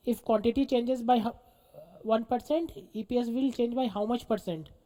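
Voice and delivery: very slow, measured dictation; each word spaced out, lifting at the comma. Real, not acted. Teacher repeating combined leverage question for students, slow dictation.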